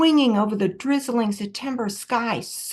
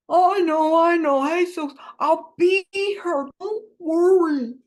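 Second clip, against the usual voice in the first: loud, higher reassuring call; cheerful shouting cop; 5 semitones higher, 5 dB louder than usual. A narrator's reading. Cop soothes crying fugitive on roof, cheerful shouting. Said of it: "Mug shouted cheerful words".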